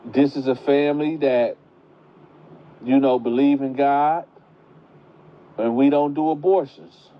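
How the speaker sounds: put-on grandma telling the pregnant girl the family rules; grandma lecturing. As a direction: play the firm churchgoing grandma. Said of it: "So she tell her".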